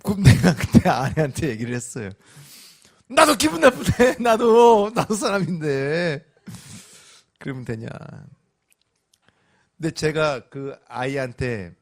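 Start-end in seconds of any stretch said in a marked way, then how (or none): 3.1-6.2 much higher, louder, then slowing; hurt, defensive. Retold or imitated. Husband answering his wife, loud and sulky. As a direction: blurt out your hurt.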